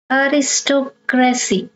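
Aristocracy in two careful chunks, aristo-cracy; third-last syllable stressed. Shown as a demonstration. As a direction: sound out Aristocracy with a break before cracy. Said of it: "you stress the third syllable from the".

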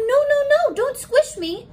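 very high squeaky ant voice, laughing through it; high-pitched little ant pleading not to be squished. Acted. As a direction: beg like a tiny panicked ant. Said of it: "the ant keeps telling him".

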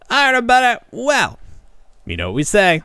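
upbeat host sign-off to listeners; cheerful outro to the audience; show sign-off. Acted. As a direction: wrap it up like a host saying goodbye.

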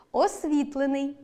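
освітлений with stress on СВІТ; stress on the root. Shown as a demonstration. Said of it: "наголос на корені". (наголос на корені: освІтлений)

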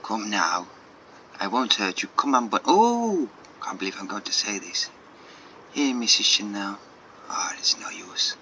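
lightly voiced French-accented artist. Artist coaxing a bunny out from the table, French accent. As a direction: coax with a rough French accent. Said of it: "so many shit French accents".

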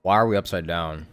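ordinary delivery

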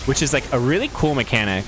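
dry sarcastic praise. Real, not acted. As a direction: say it like you mean the opposite. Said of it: "I'm being completely sarcastic".

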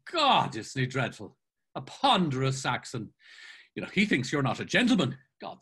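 lightly voiced scornful, chummy friend; exuberant mocking Mulligan. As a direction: run someone down with theatrical relish. Mulligan mocks Haines to his friend.

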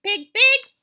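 high, loud coaxing call; kind voice. A narrator's reading. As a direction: call the pig over kindly. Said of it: "said Zuckerman in a kind voice".

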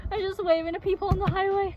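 muffled through mascot head; speaking inside costume head. Real, not acted. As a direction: voice behind full mask. Seen 5: Full costume head covers speaker's face throughout; references show bare face.

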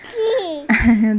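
a short real laugh at herself; a brief, genuine burst of laughter. Real, not acted. Laughs at her own phrasing.

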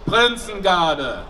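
slow drawn-out parade command; barked drill commands. Real, not acted. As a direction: call the guard to attention.

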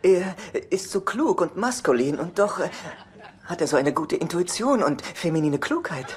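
lightly voiced imitation of brother's girlfriend; mock adoring girlfriend. Alan play-acting Chelsea praising him to Charlie, mock-adoring voice.

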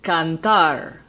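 cantar with the stress on its last syllable, -tar. Shown as a demonstration. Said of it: "emphasis is on the last syllable".

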